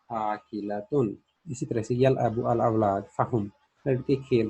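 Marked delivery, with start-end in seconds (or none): 0.1-1.2 slow answer. Shown as a demonstration. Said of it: "फहिया".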